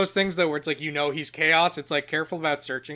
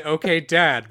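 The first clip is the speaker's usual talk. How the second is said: Bobby Hill impression; 7 dB louder, slower than usual. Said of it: "You were expecting me to say".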